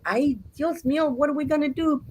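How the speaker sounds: high-pitched storybook panic; acted motherly alarm; fretting mama. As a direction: wail helplessly to your husband.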